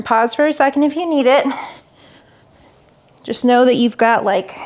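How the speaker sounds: talking mid-crunch, strained; straining through crunches while talking; doing sit-ups. Real, not acted. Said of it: "talking while doing crunches is super hard".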